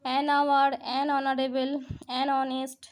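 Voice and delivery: "আওয়ার", "অনারেবল", "অনেস্ট" each starting on the vowel, H dropped; silent H. Shown as a demonstration. Teacher demonstrating exceptions, silent H in "আওয়ার", "অনারেবল", "অনেস্ট". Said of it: "এইচটাকে আমরা বাদ দিয়ে উচ্চারণ করছি".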